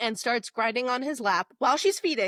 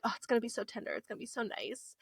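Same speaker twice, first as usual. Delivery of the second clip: mock tender hope; 11 dB quieter, much faster than usual. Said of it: "and we're like".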